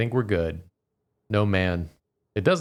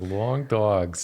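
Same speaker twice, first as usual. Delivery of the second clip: put-on Long Island accent. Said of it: "I also heard her say long".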